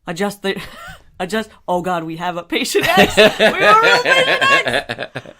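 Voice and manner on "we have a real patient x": put-on half robot, half Jamaican accent; laughing fake foreign accent; weird accent. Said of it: "I have no idea what accent that was".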